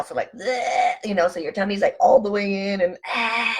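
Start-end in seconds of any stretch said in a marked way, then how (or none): 0.3-0.9 pushed-out "bleh" of breath; empty the lungs on a noise; full exhale noise. Shown as a demonstration. Showing viewers a full exhale, forced-out breath noise. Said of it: "Full exhale". 3.1-3.5 pushed-out "ah" on the breath; full exhale demo. Shown as a demonstration. Showing tummy all the way in, forced exhale. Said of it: "Full exhale".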